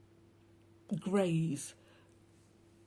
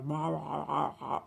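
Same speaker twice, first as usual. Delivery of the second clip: mock channeler voice; 2 semitones lower, slower than usual. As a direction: lightly parody a channeled entity. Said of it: "I'm gonna change my voice now and talk like this".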